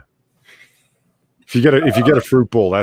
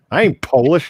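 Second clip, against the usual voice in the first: higher, louder emphatic protest; pointedly emphatic; 6 semitones higher, 5 dB louder than usual. Real, not acted. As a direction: punch it out as a loud, higher-pitched disclaimer. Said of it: "Why did you have to say it like that?".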